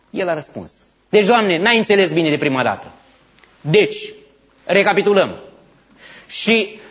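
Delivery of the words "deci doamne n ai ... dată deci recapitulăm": impatient. Acted. Elijah answering God impatiently.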